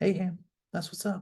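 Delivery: soft, hushed half-whisper under the breath. Speaker reads out a text reply during a timed texting challenge: half-whispering. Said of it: "I don't know why I'm whispering".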